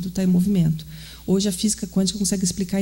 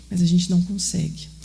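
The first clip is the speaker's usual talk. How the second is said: whispered aside; 3 semitones lower than usual. Real, not acted. Aside after asking the audience.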